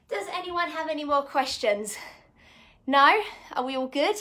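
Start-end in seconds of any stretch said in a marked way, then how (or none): 3.5-4.1 short of breath after a workout. Real, not acted. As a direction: talk while still catching your breath. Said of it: "I know I'm a bit out of breath".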